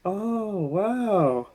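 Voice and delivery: lightly voiced naive elf; a hint of wide-eyed Buddy; retelling Buddy's surprise at the elf; imitating Buddy. Buddy's naive line retold.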